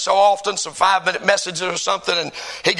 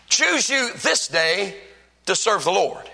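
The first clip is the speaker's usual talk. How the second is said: slow preaching; 3 dB quieter, slower than usual. Acted. Preacher stressing the text slowly.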